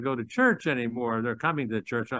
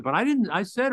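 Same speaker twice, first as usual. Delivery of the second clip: defensive protest; 8 semitones higher, 4 dB louder than usual. Retold or imitated. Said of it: "it's not only what you say, it's how you".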